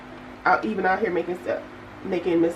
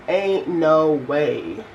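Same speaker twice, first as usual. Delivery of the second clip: slow, drawn-out disbelief; acted disbelief; 3 semitones lower, 3 dB louder, much slower than usual. Traveler reacting to the missed bus, drawn-out disbelief. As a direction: stretch it out in mock disbelief. Acting out her disbelief at news.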